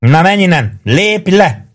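high-pitched acted shout; bellowed order. A narrator's reading. Maggio orders Prue away, shouting high. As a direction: send him away in a high cry. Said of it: "ordított rá Prúra".

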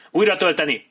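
high, loud military order; shouted command. A narrator's reading. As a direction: shout to the whole line. Officer orders troops to reload.

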